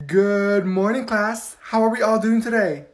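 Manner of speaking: bright, bubbly teacher greeting; overly cheerful. Acted. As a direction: greet the class way too cheerfully. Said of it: "Why is she acting like that?".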